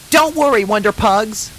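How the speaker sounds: high, loud call over the storm. A narrator's reading. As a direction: shout to the pups above the rain. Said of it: "called Rainbow over the storm".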